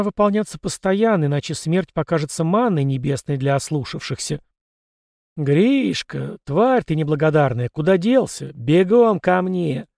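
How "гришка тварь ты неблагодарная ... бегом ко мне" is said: angry shout. Acted. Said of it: "Глаз хозяина разносился по терему".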